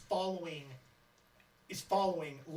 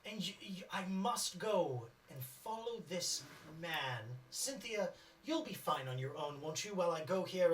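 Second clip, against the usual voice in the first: Larry. Acted. Larry agreeing to follow, a lightly put-on voice. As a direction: draw out the resolve slightly. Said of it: "So Larry says".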